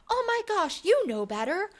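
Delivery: scolding mom. Retold or imitated. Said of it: "I would have been like".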